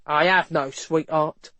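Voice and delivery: slow, grudging officer's voice; lightly voiced surly constable; muttering constable. A narrator's reading. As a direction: grumble it slowly. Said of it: "the constable muttered".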